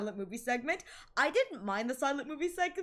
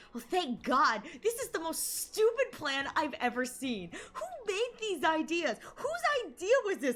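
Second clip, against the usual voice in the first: exasperated outrage; 5 semitones higher than usual. Retold or imitated. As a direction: voice climbing higher in indignant disbelief. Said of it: "she goes".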